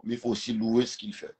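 ordinary talk

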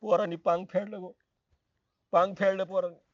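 weeping father. Acted. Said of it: "रडताय का म्हणून पण तुम्ही?".

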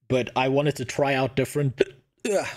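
hiccuping mid-sentence; talking through hiccups. Real, not acted. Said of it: "I don't know why I'm hiccuping now".

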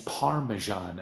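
Parmesan in a rough American accent. Shown as a demonstration. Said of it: "sorry for my terrible accent".

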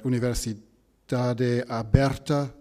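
Universidade Aberta said slowly and carefully; careful foreign pronunciation. Real, not acted. Host attempting a Lisbon university's name, careful slow pronunciation. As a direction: take care over each syllable of Universidade Aberta. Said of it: "pronounce this right".

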